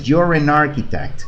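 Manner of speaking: "an architect" run together as "narchitect"; smooth linked model phrase; teacher modelling fluent speech; fluent linking. Shown as a demonstration. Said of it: "Eso es para ser fluidos".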